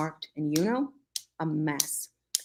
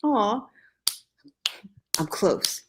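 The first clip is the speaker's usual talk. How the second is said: hammy groan; 4 semitones higher, slower than usual. A narrator's reading. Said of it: "Why does it sound like that?".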